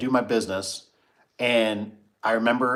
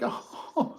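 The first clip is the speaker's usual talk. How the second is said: laughing oh; 13 semitones higher, 5 dB quieter than usual. Retold or imitated. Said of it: "I was like".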